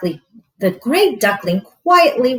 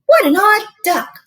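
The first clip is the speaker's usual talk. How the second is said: mocking animals; 10 semitones higher, 5 dB louder than usual. Animals mock duckling.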